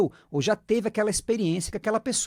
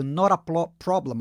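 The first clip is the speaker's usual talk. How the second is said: fast; 2 semitones lower than usual. Shown as a demonstration. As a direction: rattle off "Not a problem" quickly. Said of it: "Você pode até falar rápido". (rápido e corrido)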